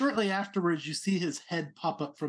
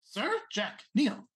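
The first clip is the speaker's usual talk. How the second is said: lightly raised, pompous little prince; a hint of a haughty rabbit noble; 5 semitones higher than usual. Prince orders kneeling.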